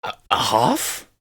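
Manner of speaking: stammered, incredulous question from a dwarf; spluttering. Acted. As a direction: splutter in mild disbelief. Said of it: "the second dwarf splutters".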